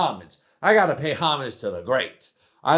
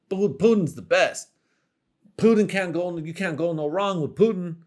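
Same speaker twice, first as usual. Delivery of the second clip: lightly voiced clueless guy raving about Putin; a hint of a dopey fan hyping Putin; 4 semitones higher than usual. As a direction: gush about Putin like you have no clue. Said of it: "my impression of someone who doesn't know Putin".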